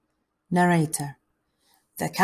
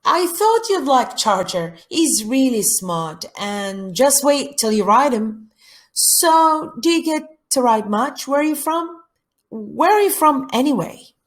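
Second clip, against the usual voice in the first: put-on higher, louder chatty girl; eager, curious camper; 7 semitones higher, 4 dB louder than usual. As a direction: play a keen camper quizzing a new friend.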